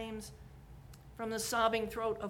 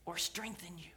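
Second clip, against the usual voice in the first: much softer, unvoiced whisper; whispered question; 3 semitones lower, 5 dB quieter than usual. Real, not acted. Preacher whispering the question to listeners. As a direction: drop to a whisper on it.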